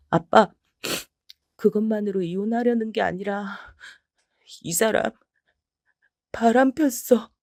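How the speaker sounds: telling dad the worst; tearful reveal. Acted. Daughter revealing affair. (딸이 아빠에게 외도 사실을 털어놓음)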